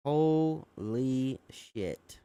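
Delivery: slow, drawn-out disbelief; stunned. Real, not acted. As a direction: let the shock stretch the words. Reacting to harassment allegation.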